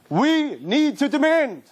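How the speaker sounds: slow, deliberate, every word weighted; slow emphatic demand. Real, not acted. Rabbi insisting to listeners, slow and deliberate. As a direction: lay it down slowly, word by word. Sermon climax urging the listeners.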